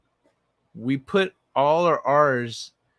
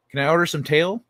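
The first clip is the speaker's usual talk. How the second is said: Australian accent joke; 3 semitones higher than usual. Shown as a demonstration. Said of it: "Aussie pun, tail for tall".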